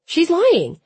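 loud furious shout. A narrator's reading. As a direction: yell it in outrage. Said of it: "I shouted".

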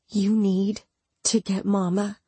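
measured, understated calm. A narrator's reading. Narrator answering screaming Imogen, keeping calm. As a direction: keep it even and controlled. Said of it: "keeping my voice calm".

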